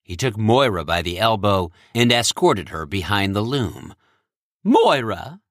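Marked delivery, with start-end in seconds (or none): 4.6-5.4 urgent. Acted. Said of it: "he said urgently".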